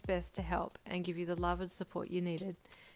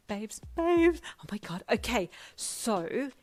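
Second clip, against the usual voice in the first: high, loud burst of excitement; squealing excitement; 4 semitones higher, 6 dB louder, slower than usual. A narrator's reading. Friend bursts in with big news, squealing with excitement. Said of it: "squealing and dancing on the spot".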